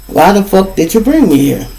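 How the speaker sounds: mad. Retold or imitated. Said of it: "I'm mad".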